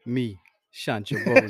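hammed-up Italian mobster voice; mock mobster accent. Introducing himself to friends as a mobster. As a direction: play the wiseguy boss. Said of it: "Yo, your accent just".

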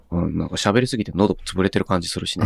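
喉がつぶれたかすれ声; 飲みすぎて喉が嗄れた声; かすれ声. Real, not acted. (喉をつぶしたかすれ声)

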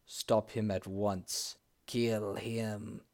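a hint of a spirit's shriek. A narrator's reading. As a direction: threaten him from the stones. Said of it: "shrieked others".

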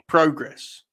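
"progress" with a long o, falling. Shown as a demonstration. Host settling how we say it, "progress" with long o. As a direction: say PRO-gress firmly, starting like "pro". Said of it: "That's how we say it".

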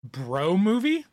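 slow, rising disbelief; incredulous. Real, not acted. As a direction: stretch it out in disbelief. Questioning the category.

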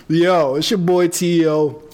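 slow, loud hype intro; podcast intro voice. Shown as a demonstration. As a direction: announce yourself like a host. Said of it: "can I do the intro".

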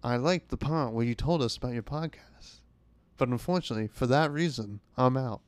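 a hint of a speakeasy dame turning him down; old-timey speakeasy lady. Barbara turning down the pitch, lightly voiced speakeasy lady. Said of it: "Sounds like an old-timey, um, speakeasy lady".

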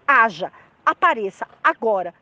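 firm command, word by word; ordem divina. Retold or imitated. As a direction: order it into being, without shouting. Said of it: "Uma ordem". (ordem firme, sem gritar)

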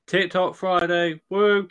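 slow, loud promo shout ending in a woo; hyped-up whoop. Acted. Plugging TikTok Friday in the promo, hyped-up whoop. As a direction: punch out each word, then whoop. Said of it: "You went from fucking smooth jazz announcer voice to".

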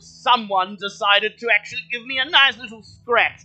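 a lonely camel finally meeting visitors, delighted; high cheerful talking camel; friendly camel. Acted. Camel voice again.

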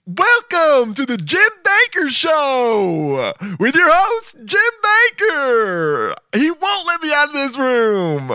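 high, slow, way too happy announcer; hammed-up cheesy TV host; fake announcer voice. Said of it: "so fake announcer voice, way too happy".

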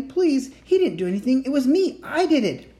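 high, loud desperate pleading; pleading cry. A narrator's reading. Girl confesses to the official, pleading loud and high. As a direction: beg him to let her brother go. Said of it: "cried Annie".

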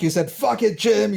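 laughing imitation of her swearing; teasing playback. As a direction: throw her words back at her playfully.

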